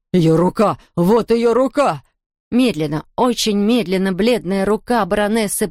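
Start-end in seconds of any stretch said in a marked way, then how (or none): 0.1-2.0 loud, scared cry of alarm; frightened cry. A narrator's reading. Herr Wurm cries out at the ghostly hand, frightened. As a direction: gasp it out in fright. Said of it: "вскрикнул господин Вурм".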